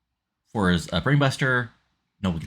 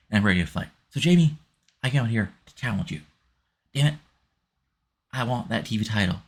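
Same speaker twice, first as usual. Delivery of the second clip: put-on terrible Southern accent; 2 semitones higher than usual. Wrestler Trevor challenges the champion for his title, amateurish Southern accent. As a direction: attempt a Southern accent, not very convincingly. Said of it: "Excuse my terrible Southern accent".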